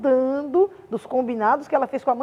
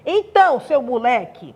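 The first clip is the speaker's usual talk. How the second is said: angry confrontation; 4 dB louder than usual. Shown as a demonstration. Teacher confronting a colleague to demonstrate raiva, mock-angry near shout. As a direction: square up and nearly shout it in pretend rage. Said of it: "eu estou com muita raiva do professor Joelson".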